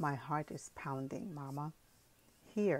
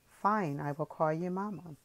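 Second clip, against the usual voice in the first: trembling voice; 4 dB louder than usual. Acted. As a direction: voice shaking a little, louder. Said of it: "answered in a trembling voice".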